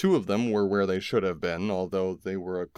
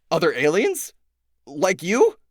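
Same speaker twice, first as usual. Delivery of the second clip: higher, louder sharp questions; demanding; 10 semitones higher, 8 dB louder than usual. A narrator's reading. Tobias demanding answers from the alien, sharp and loud. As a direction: press him hard for answers. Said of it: "Tobias demanded".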